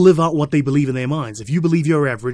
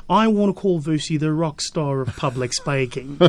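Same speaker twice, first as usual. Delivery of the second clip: imitating Australian accent; slower than usual. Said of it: "He said it in the Aussie accent".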